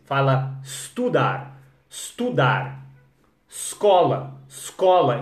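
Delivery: estudar, escola starting straight on S, said slowly. Shown as a demonstration. Teacher drilling students to say escola as scola. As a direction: drop the E, hit the S. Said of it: "Tira o E do português".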